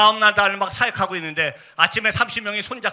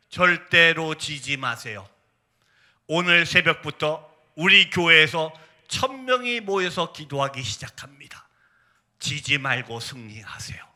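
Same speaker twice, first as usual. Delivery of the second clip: 엄숙한 격려; 2 semitones lower, slower than usual. Retold or imitated. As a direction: read the message slowly, sinking to a hush. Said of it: "그대로 말씀드릴게요". (천천히 낮게, 엄숙하게 격려)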